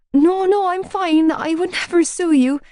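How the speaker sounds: high, loud flustered protest; panicked denial. A narrator's reading. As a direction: rush to deny it.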